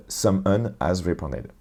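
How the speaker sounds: slow, careful English accent; the English subject line, said in an English accent. Shown as a demonstration. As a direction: read the English phrase in a mock-proud English accent. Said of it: "j'ai un super bel accent anglais".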